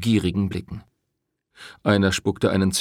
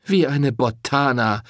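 mocking; 5 semitones higher than usual. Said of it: "höhnte Rosetta".

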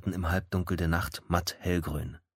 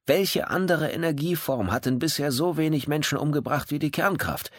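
higher-voiced older executive, indignant; an annoyed businessman defending his reactor; Kemba, defensive; 6 semitones higher than usual. To the inspector, Kemba defends nuclear power, higher and indignant.

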